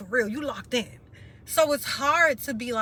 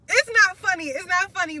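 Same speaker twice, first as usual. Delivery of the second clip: tearful; 8 semitones higher, 7 dB louder than usual. Real, not acted. Tearful after the laugh.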